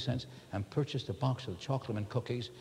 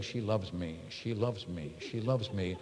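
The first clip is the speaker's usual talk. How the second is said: self-soothing mantra; 4 semitones lower, 5 dB quieter than usual. Retold or imitated. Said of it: "I have to sit there and saying".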